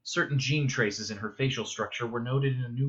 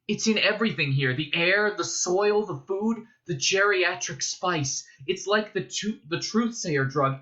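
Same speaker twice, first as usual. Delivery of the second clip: higher, louder urgent torrent; agitated, urgent; 7 semitones higher, 4 dB louder than usual. A narrator's reading. Paul telling his mother about the spice, urgent agitation. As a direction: press the alarm home.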